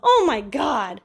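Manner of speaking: imitating her loud, upset cry; hammed-up dismay, drawn out at first; retold client losing it over the note; upset outburst. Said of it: "She was so upset".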